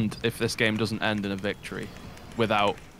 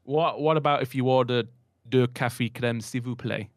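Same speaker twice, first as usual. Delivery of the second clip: mock French accent. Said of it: "What makes it French".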